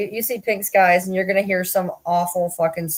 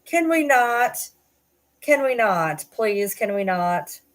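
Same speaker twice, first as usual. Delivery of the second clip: pleading; 3 semitones higher, slower than usual. Real, not acted. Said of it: "pleading at sad videos".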